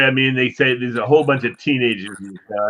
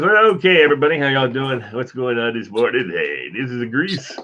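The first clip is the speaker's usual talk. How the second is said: a hint of the morning DJ; Grease impression. DJ greeting listeners on air, mild Grease impression. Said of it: "They got him down pretty well".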